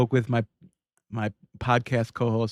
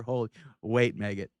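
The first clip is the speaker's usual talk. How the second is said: normal talking voice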